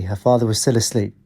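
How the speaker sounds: usual speaking voice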